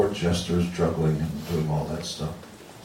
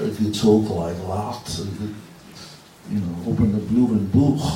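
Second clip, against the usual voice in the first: imitating a Liverpool Scouse accent; lightly put-on Scouse, drawing out the words. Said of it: "that's what's called a Scouse accent".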